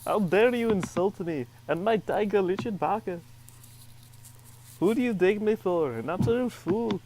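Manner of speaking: indignant character. Acted. Reading game character lines dramatically.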